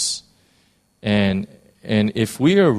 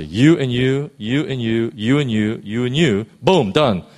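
cult leader; 3 semitones higher, 4 dB louder than usual. Retold or imitated. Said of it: "I know that sounds very cultish".

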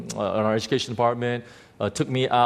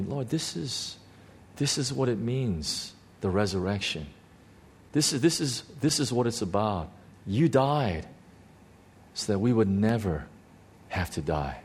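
hushed awe; 4 dB quieter than usual. Retold or imitated. Believer telling the Lord what resurrection means, hushed awe. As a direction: quietly work it out in prayer, phrase by phrase. Retold prayer of realisation.

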